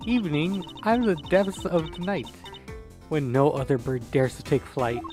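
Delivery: a hint of a grand cheeky heroine; man doing a woman's voice. Kay's grand introduction verse.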